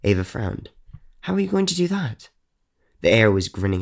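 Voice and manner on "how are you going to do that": put-on frowning child voice. A narrator's reading. Ava frowns, asks.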